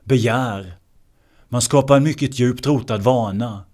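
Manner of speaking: normal talking voice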